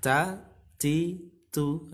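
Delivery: "Ta, ti, tu" with a slight hiss after each t. Shown as a demonstration. Teacher demonstrates preferred reading, "Ta, ti, tu" with hissed t. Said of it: "seperti mendesis ya".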